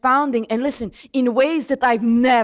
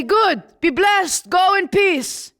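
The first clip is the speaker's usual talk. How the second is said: slow, slightly raised priestly blessing; priest's blessing; 5 semitones higher, slower than usual. Acted. Priest sends worshipper off after the offering, slow blessing. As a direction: bless them slowly as a priest would. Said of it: "He would say".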